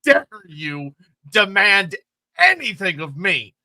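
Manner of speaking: lightly voiced indignant god; Slaanesh. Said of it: "Slaanesh turns around and says".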